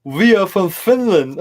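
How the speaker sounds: slow, high put-on Finnish accent; mock Finnish accent. Finnish band announcing themselves in a slow, high mock accent. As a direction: ham up a Finnish band intro.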